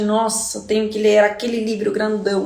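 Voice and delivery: mildly acted reluctance at a chore; mock-bored student complaining; bored complaint. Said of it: "daquela maneira chata de".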